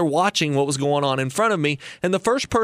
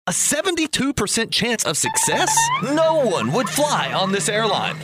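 surprised; 9 semitones higher than usual. Acted. Host mocks the odds.

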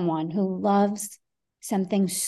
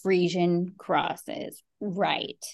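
slow, low, dry aside fading to a whisper; skeptical; 3 semitones lower, 4 dB quieter, much slower than usual. Retold or imitated. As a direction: doubt it under your breath. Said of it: "he was probably like".

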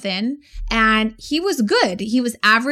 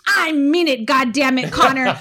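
angry grandpa; 3 semitones higher than usual. Retold or imitated. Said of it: "and he goes".

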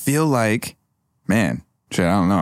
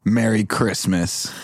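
one-liner; much slower than usual. Acted. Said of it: "He gets his one-liner out".

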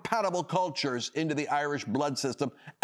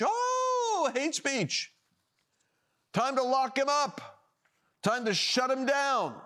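sarcastic mock alarm; 8 semitones higher, slower than usual. Real, not acted. Mocking the hate-speech charge.

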